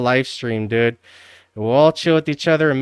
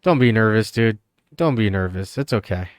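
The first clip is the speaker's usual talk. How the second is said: reassuring; 2 semitones lower than usual. Real, not acted. Reassuring a nervous streamer.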